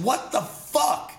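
slow, baffled outburst; incredulous. Retold or imitated. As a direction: drag it out, stunned at everyone. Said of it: "And I'm like".

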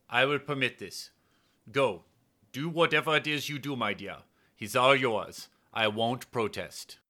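a reluctant lover granting permission; Steinhardt giving in. Acted. Steinhardt to his lover as he gives in, resigned.

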